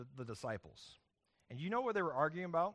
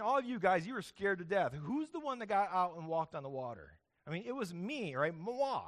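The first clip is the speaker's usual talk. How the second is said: a hint of an indignant Peter, higher; boasting to the others, pitched up; 3 semitones higher than usual. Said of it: "Peter's like".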